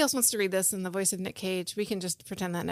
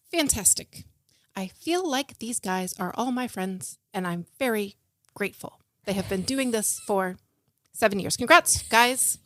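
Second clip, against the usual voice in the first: Trudy Ship. Acted. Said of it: "I think I could do Trudy Ship".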